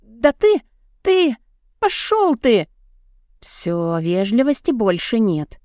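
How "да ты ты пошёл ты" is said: angry outburst. A narrator's reading. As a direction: sputter it out, furious. Heroine sputters in anger.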